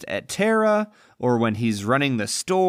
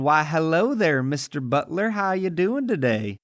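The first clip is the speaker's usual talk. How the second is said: mock genteel Southern accent; Southern airs and graces. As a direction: put on a gracious Southern greeting, lightly hammed up. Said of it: "talks with their airs and their graces".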